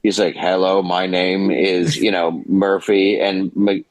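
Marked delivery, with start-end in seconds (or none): 0.3-3.2 slow, measured mock robot; robotic RoboCop voice. Peter Weller staying in character as RoboCop, slow robot voice. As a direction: speak it evenly like a stiff robot cop. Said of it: "in character the whole time".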